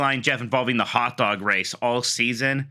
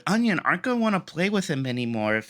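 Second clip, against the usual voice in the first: imitating indignant child; 6 semitones higher than usual. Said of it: "he was going on about it".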